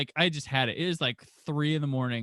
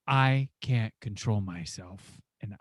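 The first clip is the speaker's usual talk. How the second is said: retold grave warning; 7 semitones lower, 4 dB quieter than usual. Passenger warning driver off the restaurant, low hushed intensity. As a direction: imitate a dead-serious warning, dropping very low and hushed.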